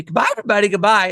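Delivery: sketch character. Retold or imitated. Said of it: "Bye, Mister Candy".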